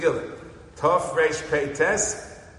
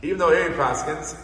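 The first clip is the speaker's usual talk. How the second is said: usual speaking voice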